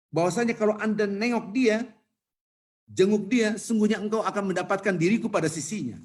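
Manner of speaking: God's reply. Acted. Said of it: "apa kata-kata Allah?".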